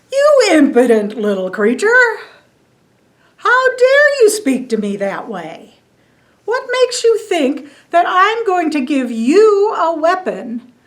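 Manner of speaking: a king of gods dressing down an upstart; indignant Zeus. Acted.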